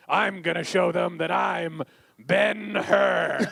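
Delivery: lightly voiced, slow epic hero; mock-dramatic act-closing line; slow, slightly grand hero delivery; movie hero line. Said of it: "someone being like".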